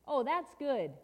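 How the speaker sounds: loud burst of approval; emphatic delight. Acted. Storyteller reacts to elephant rescue, loud delight. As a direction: cheer the good news.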